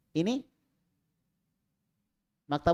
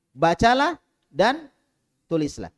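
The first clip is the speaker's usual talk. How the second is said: slow drilled emphasis; 3 semitones higher, 6 dB louder, slower than usual. Shown as a demonstration. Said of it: "teacher drills meaning of Arabic".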